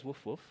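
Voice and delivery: low, soft double woof; British dog woof. Shown as a demonstration. Speaker showing how British dogs sound, soft woofing. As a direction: let out two muted woofs. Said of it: "The British like a good woof".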